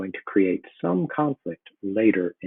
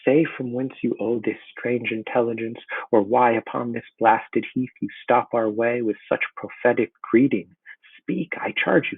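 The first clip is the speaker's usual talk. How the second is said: rising, pleading higher and higher to the witches; desperate demand; 3 semitones higher than usual. Acted. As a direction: Macbeth begs the witches to explain. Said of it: "He's desperate to have them explain".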